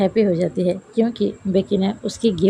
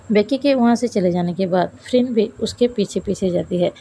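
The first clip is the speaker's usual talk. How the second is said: usual speaking voice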